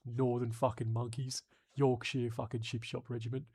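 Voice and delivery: light London geezer accent, mock rough; a touch of a London hard man. Mocking British soldiers in a light London geezer accent. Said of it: "Bit of a London geezer".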